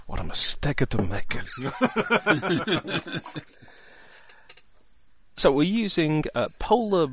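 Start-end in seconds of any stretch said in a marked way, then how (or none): 0.1-1.4 lightly put-on Italian accent; hammed-up Italian accent catchphrase; comic Italian accent. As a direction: do a mock sitcom Italian. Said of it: "the Italian accents".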